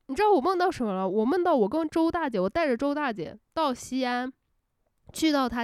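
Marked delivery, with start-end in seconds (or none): none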